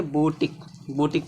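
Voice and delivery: बोटिक ending in a simple k; shown reading बोटिक. Shown as a demonstration. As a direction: close बोटिक on k for the que. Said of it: "क्या पढ़ेंगे". (बोटिक, अंत में सिर्फ 'क')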